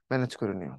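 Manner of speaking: hushed, tired sick teacher voice; quiet and low from illness. Real, not acted. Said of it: "এই জন্য জোরে কথা বলছি না".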